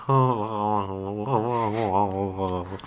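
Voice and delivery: string of drawn-out, wavering ohs; mock flustered ohs. Host imitates George flustered by an advance, mock flustered. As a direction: imitate a flustered man stuck on "oh". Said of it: "he's just kinda like".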